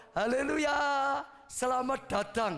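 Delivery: lightly voiced parrot singing out a welcome. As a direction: squawk it out like a pet parrot. Parrot speaks again.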